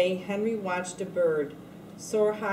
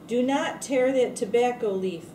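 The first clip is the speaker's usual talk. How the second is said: raised, stern boss voice; factory boss yelling at the new boy, raised stern voice; yelled order; 4 semitones higher, 4 dB louder than usual. Acted. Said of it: "the boss yelled".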